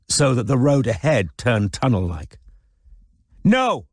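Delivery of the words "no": shouted. A narrator's reading. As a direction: slam out the no with full force. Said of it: "she shouted".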